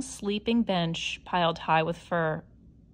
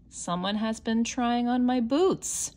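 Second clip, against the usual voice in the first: big bear voice; 4 semitones higher than usual. Acted. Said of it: "he boomed in his big bear voice".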